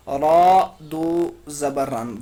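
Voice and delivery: رن held long with nasal noon; drawn-out ran. Shown as a demonstration. Teacher slowly shows the noon sound in رن. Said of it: "دیکھو".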